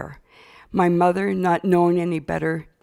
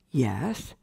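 solemn priest; 5 semitones lower, 5 dB quieter than usual. Retold or imitated. Priest answers in the confessional.

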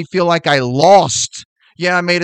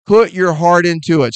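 repeated louder, with more force; emphatic, louder; 4 dB louder than usual. Shown as a demonstration. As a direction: punch it out the second time. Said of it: "I mean".

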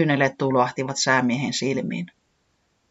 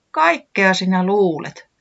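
relieved; 6 semitones higher, 4 dB louder, slower than usual. A narrator's reading. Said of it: "huudahti Tiputi silmin nähden helpottuneena".

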